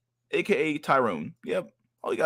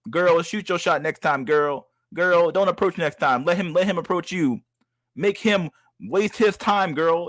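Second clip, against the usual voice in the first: put-on higher, sing-song coaxing "girl" voice; mock supportive girlfriend voice; 4 semitones higher than usual. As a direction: hype her up like a gushing best friend. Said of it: "the whole world gonna be like".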